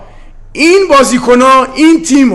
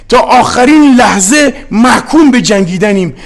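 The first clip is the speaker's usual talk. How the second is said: passionate shout. Real, not acted. Coach vowing to the home fans that they fight to the end, shouting. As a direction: shout it like a battle vow to the fans.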